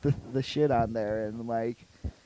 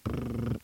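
imitated buzzing; 4 semitones lower, 8 dB quieter than usual. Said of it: "it was like".

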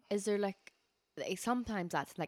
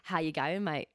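casual Aussie accent demo; lightly put-on Australian accent. Shown as a demonstration. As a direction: show how an Australian would greet. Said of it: "That was Australian".

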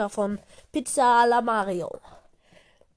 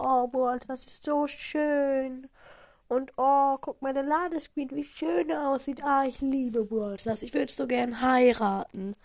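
lovestruck; 3 semitones higher than usual. Acted. Lovestruck gamer gushing.

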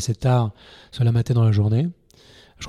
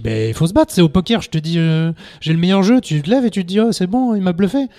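plus aigu et plus fort, ton de sermon; fais-lui la leçon avec insistance; leçon appuyée; 6 semitones higher, 4 dB louder than usual. Retold or imitated. Leçon au candidat au casting. (juré qui fait la leçon au candidat, ton appuyé)

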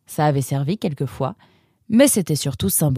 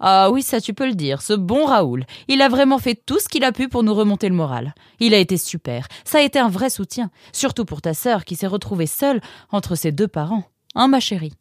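high-pitched, animated, quick motherly praise; lightly voiced effusive mum; appreciative mother; 5 semitones higher, faster than usual. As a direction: gush gratefully about a dear relative.

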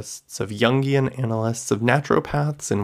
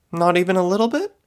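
higher, quick teasing with a smile; smiling; 9 semitones higher, 4 dB louder, faster than usual. Acted. Fortune teller smiling while coaxing her friend. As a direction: coax her playfully.

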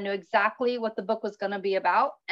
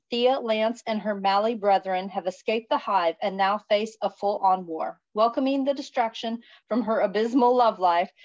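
reading a book blurb aloud. Acted. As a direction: read the back cover like a blurb. Reads the back cover blurb.

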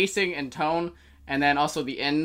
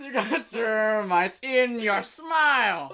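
monotone; 5 semitones higher, much slower than usual. Shown as a demonstration. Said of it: "monotone tone".

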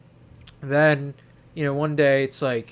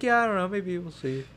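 faked cheer; 5 semitones higher than usual. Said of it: "hiding the absolute pain behind my face".

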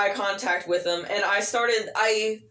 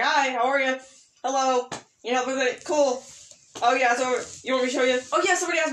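customer-service chirp; 5 semitones higher than usual. Retold or imitated. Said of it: "and I was like".

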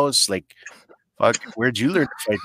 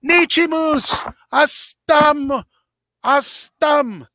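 retold yelling; much slower than usual. Man at his truck hollering to his wife, high calls. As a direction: holler the name across the lot, waving. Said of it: "He's like, did it again".

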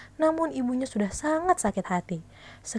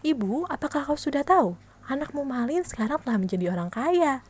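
excited exclaim; 4 semitones higher than usual. Acted. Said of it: "seru tetangga itu".

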